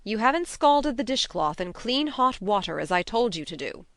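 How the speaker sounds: loud, firm character voice; immovable. A narrator's reading. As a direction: scold without budging. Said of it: "said Marilla immovably".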